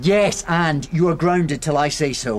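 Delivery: emphatic parental telling-off; stern punishment. Acted. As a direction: lay down the punishment slowly. Father grounds his daughter.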